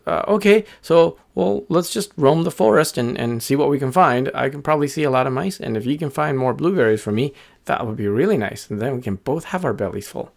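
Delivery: high bird voice, settling toward the end; agreeable little bird. Acted. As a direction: accept the deal as a small bird.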